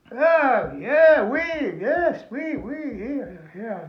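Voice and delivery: mock eager oui yeah; eager agreeing. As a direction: jump at the deal. Eager reply to French peddler.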